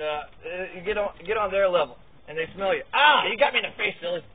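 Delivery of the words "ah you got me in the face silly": loud startled outburst; startled cry. Real, not acted. Man to dog that got him in the face, startled. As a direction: cry out as if caught off guard.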